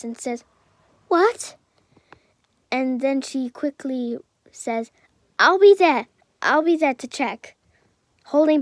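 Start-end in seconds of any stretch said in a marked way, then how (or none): 1.1-1.5 sharp high shocked "What?"; stunned mother's cry. Acted. Mother hears son is dead. 5.4-7.5 loud, high urgent cry; frantic mother shouting. Acted. Mother rushing to dying son.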